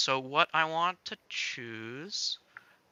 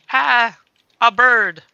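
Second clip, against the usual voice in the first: loud, higher exclaimed discovery; mock surprised; 10 semitones higher, 14 dB louder, slower than usual. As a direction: shout it like spotting a bird. Acting character spotting bird.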